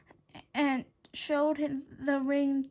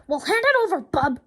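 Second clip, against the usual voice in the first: instructed; 3 semitones higher, 8 dB louder than usual. A narrator's reading. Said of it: "George instructed".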